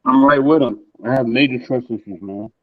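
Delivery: muffled, like through a wall. Real, not acted. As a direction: sounds muffled over a bad mic. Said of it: "No, you sound muffled".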